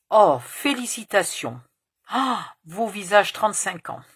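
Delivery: put-on Romanian accent. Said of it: "elle parle avec un accent roumain".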